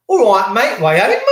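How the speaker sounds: messed-up Cockney-Geordie mix; mock Geordie accent. Host imagines how Cockney Geordie talks, mock Geordie accent. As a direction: lightly put on a Geordie greeting. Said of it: "I bet you they say it like that".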